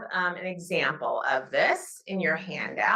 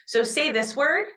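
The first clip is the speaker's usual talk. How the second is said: teacher prompt; 7 semitones higher than usual. Shown as a demonstration. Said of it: "teacher prompt".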